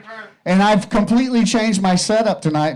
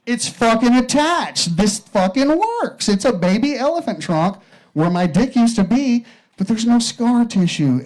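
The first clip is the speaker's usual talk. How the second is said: amazed patient; 4 semitones higher than usual. Acted. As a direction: marvel at it, drawing out each word. Patient amazed at new trunk.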